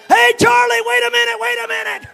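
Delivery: high, loud yell after the car; yelling across the field; screaming out. Retold or imitated. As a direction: holler for him to stop. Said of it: "screams out".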